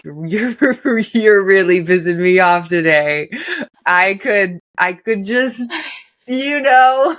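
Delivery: through a laugh, rising at the end; joking, mock-annoyed spouse; mock passive-aggressive. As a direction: play fake annoyance with a loving tease. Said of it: "where it's just like".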